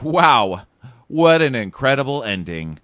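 loud TV-host enthusiasm. Retold or imitated. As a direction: announce it like a game show host. Imitating host Chris.

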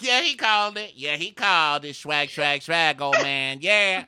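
high, loud bro-style hollering; mock hyped-up cheering. Date answering the old man, mock hyped. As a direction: crow it triumphantly, mocking him. Acting the date's hyped reply.

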